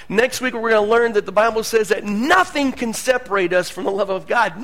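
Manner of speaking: preaching crescendo; rising preacher shout. Real, not acted. Preacher building to the climax.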